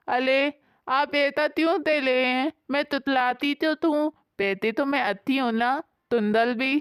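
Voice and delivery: put-on lisping childlike wife. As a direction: lisp every k and s like a little child. Sheetal pleads lisping.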